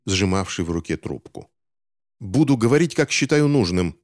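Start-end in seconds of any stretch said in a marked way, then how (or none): 2.2-4.0 higher, sharp angry retort; angry bark. Acted. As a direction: snap back at the other officer. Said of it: "рявкнул первый". (сердитый окрик)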